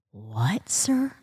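whispered disbelief; stunned whisper. Real, not acted. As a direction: whisper it in shock. Stunned reaction to the date.

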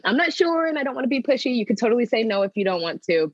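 tentative, apologizing for the ask; apologetic pitch. Pretend. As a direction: back off the offer as if sorry for asking. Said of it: "felt a little bit like you were apologizing".

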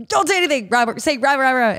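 high, urgent mock-mom wake-up order; imitating mom. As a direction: play a mother rousing her kids in a hurry. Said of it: "My mom would wake my brother up and go".

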